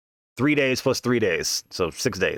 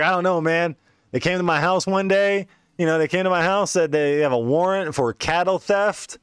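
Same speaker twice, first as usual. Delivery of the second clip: put-on old crackhead voice; 5 semitones higher than usual.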